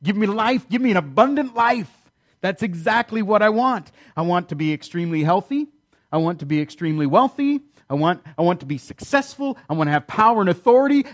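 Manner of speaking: hammed-up greedy enthusiasm, pitch leaping up; eager acclaim. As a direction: claim it all with exaggerated zeal. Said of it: "we read that verse and we say".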